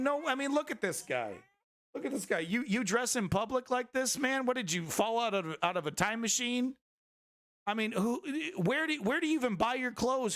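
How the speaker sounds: high-pitched, exasperated disbelief; comic rant pitched well up; incredulous ridicule. Real, not acted. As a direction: roast him in baffled, rising pitch. Ridicules a man's old-fashioned clothes.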